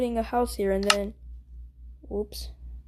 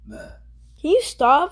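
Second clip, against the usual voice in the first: annoyed; 4 semitones higher, 4 dB louder, much slower than usual. Real, not acted. Annoyed at his sister.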